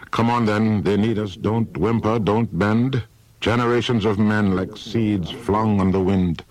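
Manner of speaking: rally the frightened men. Acted. Odysseus urges his sailors not to whimper, rallying.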